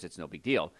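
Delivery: a hint of a dismissive patient, It's no big deal said lightly; mock patient shrugging it off. Doctor mimics a careless patient, light dismissive shrug. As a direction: toss off It's no big deal like a patient who doesn't care. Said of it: "and you think".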